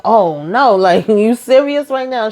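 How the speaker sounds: imitated dismay rising into high pitch; mock disbelief. Man hears of Hunter's overdose, mock disbelief. Acted reaction to bad news.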